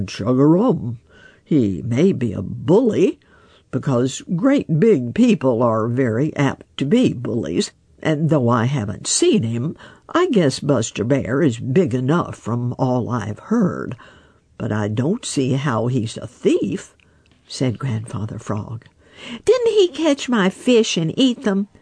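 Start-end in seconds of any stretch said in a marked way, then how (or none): 0.1-17.0 lightly voiced wise old frog, unhurried; a hint of a croaky old frog musing. Grandfather Frog speaks. 19.5-21.7 snapping. Acted. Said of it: "snapped Little Joe".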